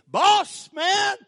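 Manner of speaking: high, loud, excited shout; a stranger overjoyed to hear a hog call. Retold or imitated. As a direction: homesick man shouting for joy. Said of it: "and he said".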